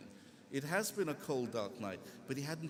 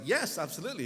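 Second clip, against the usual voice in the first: louder, eager acceptance; mildly elated; 3 semitones higher, 5 dB louder, faster than usual. Retold or imitated. Young man accepting the scholar's invitation, mildly elated. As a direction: agree with a touch of elation. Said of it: "He was elated".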